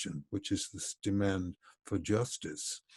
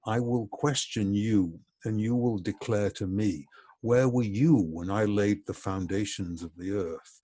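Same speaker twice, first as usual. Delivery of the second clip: quoting God with mild, measured sarcasm; sarcastic questions, pressing on each challenge; heavily sarcastic. Retold or imitated. God challenging Job out of the whirlwind, sarcastic. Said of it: "Listen to the sarcasm".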